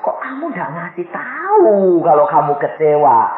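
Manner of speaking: high, wailing reproach; acted tearful plea; crying husband. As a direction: imitate the husband weeping as he asks. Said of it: "Suaminya nangis dirangkul".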